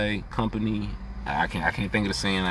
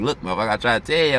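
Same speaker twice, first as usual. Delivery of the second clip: fast, louder I-told-you-so scolding; exasperated told-you-so; 4 dB louder, much faster than usual. Retold or imitated. Scolding the coworker who would not listen, fast exasperation. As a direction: rattle it off like you saw it coming. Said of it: "and you like".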